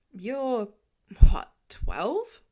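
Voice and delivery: breathy, disbelieving question; Tony, shocked at how young the kid is; incredulous. A narrator's reading. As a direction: ask it half-whispered in disbelief.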